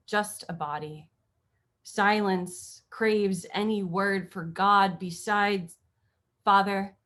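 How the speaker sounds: slow, measured poem delivery; poetry reading. Acted. Poet reading her sestina about sailing with family, measured poetry reading. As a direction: read the poem aloud with pauses between phrases.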